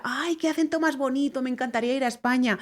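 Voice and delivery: high, gushing, fast mock admirer; imitating gushing local. A Mexican shopper praising her accent, high mock gushing. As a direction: gush over the Spanish accent. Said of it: "y me dice".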